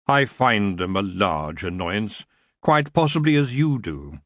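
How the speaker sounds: a hint of smooth, lazy royalty; the elf king apologizing idly to Tiffany.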